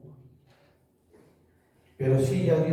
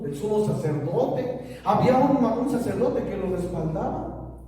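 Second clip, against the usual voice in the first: raised-pitch, driving sermon delivery; impassioned preaching; 5 semitones higher than usual. Real, not acted. Preacher telling how Paul felt powerful, impassioned preaching. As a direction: build the case with pulpit fervor.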